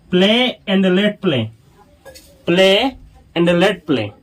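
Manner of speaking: drawn out, word by word; slow model reading. Shown as a demonstration. Teacher drilling the phrase for students, very slow. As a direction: say it slowly for learners. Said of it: "teacher models the English phrase".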